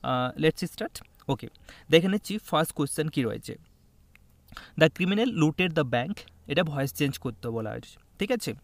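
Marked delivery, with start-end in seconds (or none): 4.8-6.1 slow dictation. Shown as a demonstration. Teacher reading the question aloud.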